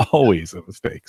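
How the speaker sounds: laughing through the repeat. Real, not acted. Repeating his own admission with a rueful laugh. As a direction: let the laugh carry the words. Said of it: "It's always a mistake".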